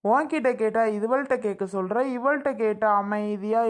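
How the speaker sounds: long drawn-out exasperated exclamation; slow, rattled-off tut of frustration. Acted. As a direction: stretch the syllables out in fed-up dismay. Brother fed up with both sisters' evasions.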